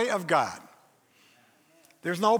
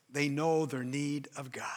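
soft whispered aside; hushed preacher's whisper; 8 semitones lower, 7 dB quieter than usual. Real, not acted. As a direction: breathe it out in a hush. Preacher drops for emphasis.

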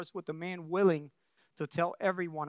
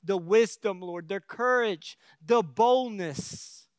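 earnest praying voice; prayer; 2 semitones higher than usual. Acted. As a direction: pray it over the congregation. Leads closing prayer.

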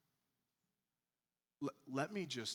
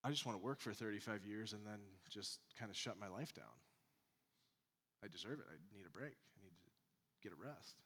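fading into a soft tired sigh; worn-out worker; 3 semitones lower, 7 dB quieter, faster than usual. Retold or imitated. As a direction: let it sink toward exhaustion. Voicing a worn-out American worker.

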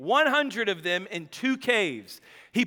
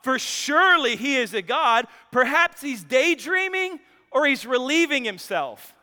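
mock scoffing; 3 semitones higher than usual. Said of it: "he scoffed".

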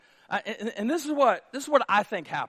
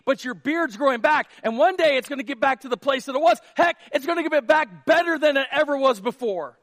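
higher and louder, building hype; rising encouragement; 7 semitones higher, 5 dB louder than usual. Acted. Soldier rallying his shamed friend, louder and excited. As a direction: pump your buddy up with rising excitement.

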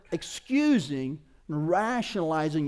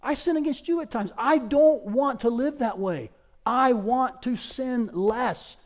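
higher, slowed, deliberate confession; impassioned preaching; 6 semitones higher, 4 dB louder than usual. Real, not acted. Preacher confesses sinning against his church, emphatic and slow. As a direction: weigh out each word with raised conviction.

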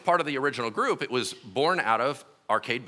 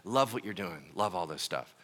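gentle divine whisper; 6 semitones lower, 6 dB quieter than usual. Retold or imitated. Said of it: "the Lord whispered to me".

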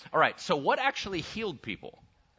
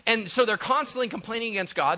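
ordinary delivery

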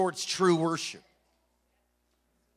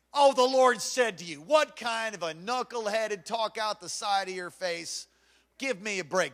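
scoffing; 2 semitones higher than usual. Real, not acted. Preacher scoffs at enemy's claim.

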